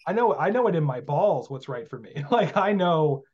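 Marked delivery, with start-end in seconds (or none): 0.1-2.1 defiant retort. Retold or imitated. Answering the English magician, defiant louder retort. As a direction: plant your feet and insist. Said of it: "I'm like".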